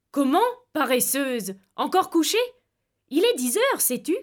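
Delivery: a hint of a fond, ringing father's scolding; ringing wake-up voice. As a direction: tease her awake, bright and ringing. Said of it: "une voix vibrante".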